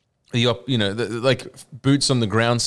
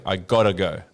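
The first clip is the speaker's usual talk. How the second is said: gotta said as ɡɑtə, crisp t; Aussie gotta go, rhymes with ricotta; Australian gotta; 3 semitones lower than usual. Shown as a demonstration. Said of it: "you gotta say".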